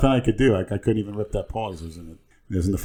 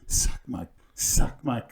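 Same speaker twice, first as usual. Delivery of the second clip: put-on Latin accent; 3 semitones higher, much slower than usual. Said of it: "trying to do the Latin accent".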